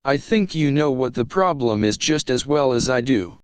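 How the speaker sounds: calm HAL-like computer voice; unhurried polite AI, eerily calm; calm ship computer. Acted.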